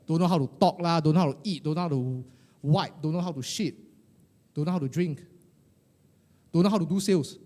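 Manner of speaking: loud, punchy list of complaints; hammed-up scolding of a baby; mock berating. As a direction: reel off the faults with mock disgust.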